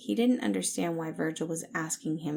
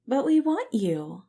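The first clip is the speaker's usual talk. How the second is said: eager plea; 6 semitones higher, 7 dB louder than usual. Acted. Patton pleading with Virgil.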